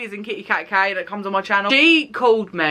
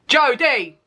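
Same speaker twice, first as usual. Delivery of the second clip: exclaimed name; 5 semitones higher than usual. Shown as a demonstration.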